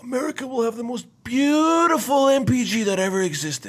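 Trump. Pretend. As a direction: swell with grandiose pride on the superlatives. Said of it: "Trump to announce review".

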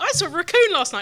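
excited quote. Retold or imitated. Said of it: "this morning I was like".

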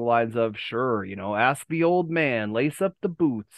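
put-on slow, drawn-out gravel of an old wrestler promo; Macho Man impression. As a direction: drag the words out like Macho Man cutting a promo. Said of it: "somebody told me that I sounded like a demon".

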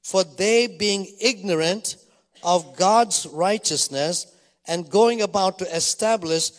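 slow, emphatic Bible reading; scripture reading. Acted. Preacher reads Paul's words to the congregation, slow solemn reading. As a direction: read it out deliberately, weighting key words.

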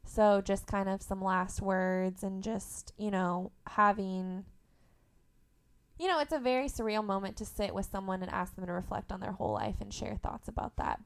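ordinary talk

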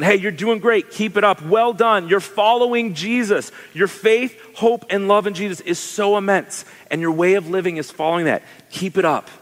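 like a coach urging someone on; encouraging. Acted. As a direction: pump them up with hearty encouragement. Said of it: "someone to encourage you that way".

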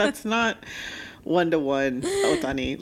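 a giggling mock scold at Otani; laughing retort. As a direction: tease him through laughter.

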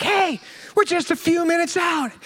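slow, breezy phone voice; tow caller. Retold or imitated. Tow company calling him, lightly voiced breezy caller. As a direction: play the relaxed tow guy on the phone. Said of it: "they're like".

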